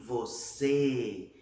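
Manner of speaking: VOCÊ drawn out on a closed ê; closed vowel. Shown as a demonstration. Teacher repeating to show the circumflex, closed vowel. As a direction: keep the mouth narrow on VOCÊ. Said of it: "Tá vendo que eu não abri?".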